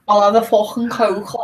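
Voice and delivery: playing up the Scouse; throaty Scouse k on Coke; Scouse guy. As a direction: put on a thick Liverpool lad. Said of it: "with a Scouse guy".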